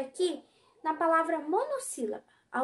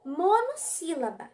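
slow teaching read. Shown as a demonstration. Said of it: "olha só".

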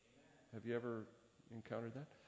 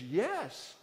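curt yes; 7 semitones higher, 6 dB louder than usual. Retold or imitated. Agitated young man answers.

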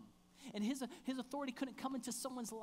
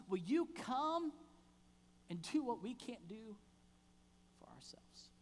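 pleading; 2 semitones higher, 4 dB louder than usual. Acted. Pleading climax fading to whisper.

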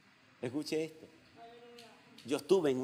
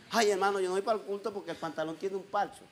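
higher, fast imitated complaint; mock whining excuse; 5 semitones higher, faster than usual. Pastor imitating a member skipping church over patched trousers, mock whine.

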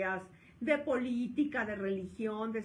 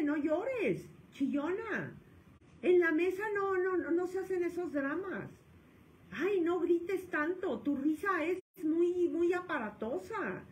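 higher, louder mock scolding of a child; scolding parent; 7 semitones higher, 4 dB louder than usual. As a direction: nag the kid at the table. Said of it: "Porque me dice". (padre regañando a su hijo, en voz alta y burlona)

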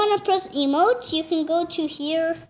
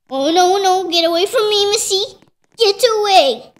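louder shoo; 4 semitones higher, 6 dB louder than usual. Real, not acted. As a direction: shoo the cat off. Shooing cat away.

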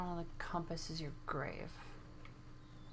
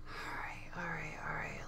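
whispering; 3 semitones lower, 13 dB quieter than usual. Real, not acted. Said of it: "let me think".

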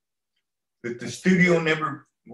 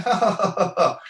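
imitating a laugh; 7 semitones higher, 4 dB louder than usual. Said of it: "they're just laughing and going like".

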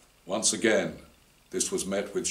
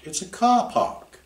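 incredulous; 5 dB louder than usual. Acted. Susie incredulous.

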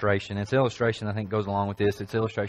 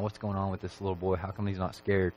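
inner thought; 4 semitones lower, 7 dB quieter than usual. Retold or imitated. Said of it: "thinking in her mind".

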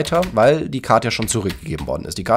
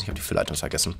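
dismayed whisper; 6 semitones lower, 11 dB quieter, much faster than usual. Real, not acted. Streamer realizing he forgot the filler items, whispering. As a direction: breathe it out, almost voiceless. Repeats mistake, voice drops away.

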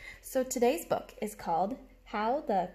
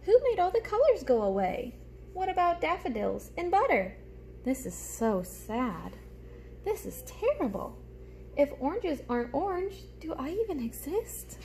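a hint of worried crayon voices, higher; lightly voiced upset crayons; crayons talking; 6 semitones higher than usual. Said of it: "So here's them talking".

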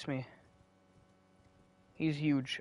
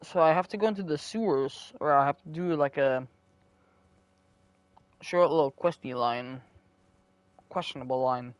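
mouth full. Real, not acted. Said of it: "Currently munching on an apple".

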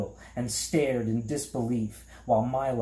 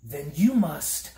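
high-pitched alarmed gasp; 5 semitones higher, 4 dB louder than usual. A narrator's reading. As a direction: gasp it out in a higher voice. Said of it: "gasped Milo".

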